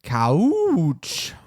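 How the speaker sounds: breathy whisper. Acted. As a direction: hush the word. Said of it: "I just gotta smell it".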